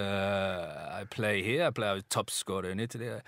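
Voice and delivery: lightly imitated Italian accent; halting mock Italian accent; Andre Salenzi. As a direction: list achievements in a hesitant Italian accent. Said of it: "I'm not gonna do the accent".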